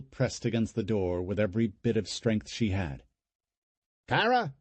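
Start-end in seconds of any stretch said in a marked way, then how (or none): 4.1-4.5 calling out. Acted. Uncle calling her.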